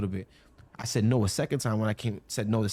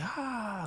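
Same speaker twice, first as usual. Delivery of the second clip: soft, high mock scream; breathy crowd roar, kept quiet; imitated crowd scream; 11 semitones higher, 8 dB quieter than usual. People at his stage show, hushed mock screaming.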